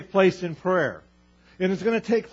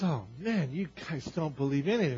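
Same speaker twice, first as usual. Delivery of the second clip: frustrated Jesus; 4 semitones lower, 6 dB quieter than usual. Retold or imitated. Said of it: "Jesus is frustrated".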